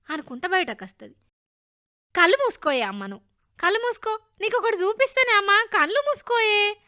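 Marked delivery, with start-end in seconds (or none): 2.2-6.8 put-on raised, louder eager boy voice; excited coaxing. A narrator's reading. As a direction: urge mother on before a surprise. Excited boy coaxing his mother.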